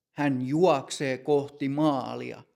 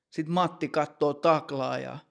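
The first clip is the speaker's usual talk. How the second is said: usual speaking voice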